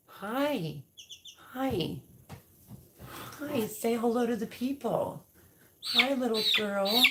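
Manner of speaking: high cooing hello to the little chick. Real, not acted.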